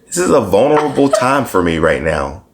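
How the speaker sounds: hoarse, recovering from a cold; a cold's rasp in the voice; raspy voice. Real, not acted. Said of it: "that raspiness is in there".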